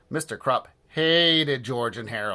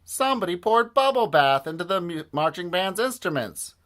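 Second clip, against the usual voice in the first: indignant fan; 8 semitones higher, 4 dB louder than usual. Acted. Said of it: "a fan".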